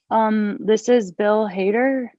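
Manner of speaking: slow, unsure, like asking if it's right; name himself as if it were a question; hesitant self-introduction, rising like a query. Retold or imitated. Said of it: "He said it like it was a question".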